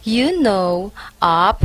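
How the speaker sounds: scornful cackle; mocking laugh. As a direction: laugh at the gossip. Mocking Teresa's supposed neurosis.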